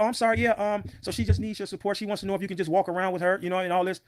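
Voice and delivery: high-pitched voice mimicking a woman caller; put-on high voice, hedging; apologetic caller. Retelling the intermediary caller's words.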